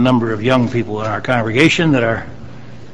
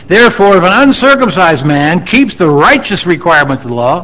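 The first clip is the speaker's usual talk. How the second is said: emphatic Bible reading to a congregation; declaimed scripture; 4 semitones higher, 4 dB louder than usual. Real, not acted. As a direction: read the verse out firmly, lifting key phrases. Reads scripture aloud to congregation.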